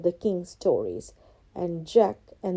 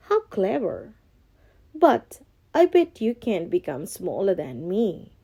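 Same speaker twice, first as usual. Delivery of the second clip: lightly taunting cat. Acted. Cat taunts the ogre, mild teasing. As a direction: tease the ogre. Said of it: "taunted Puss".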